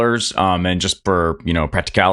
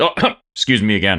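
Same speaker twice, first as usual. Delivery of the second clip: put-on accent breaking down, natural voice showing. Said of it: "his accent breaks again".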